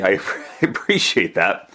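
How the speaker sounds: sheepish laugh while saying appreciate. Real, not acted. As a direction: chuckle through the thank-you. Thanking listeners, laughs mid-line.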